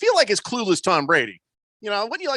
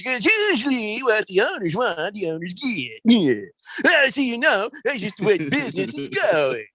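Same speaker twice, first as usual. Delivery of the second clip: put-on old man Tom Brady; 2 semitones higher than usual. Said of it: "as an old man telling people to get off of his lawn".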